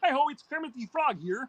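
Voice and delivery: lightly voiced Kermit, a hint of frog; a touch of Kermit's reedy greeting; Kermit impression. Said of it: "I can also do Kermit the Frog".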